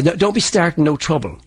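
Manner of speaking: demonstrated south-of-Ireland lilt; Irish accent from the south; southern Irish accent. Shown as a demonstration. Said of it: "from the south of Ireland".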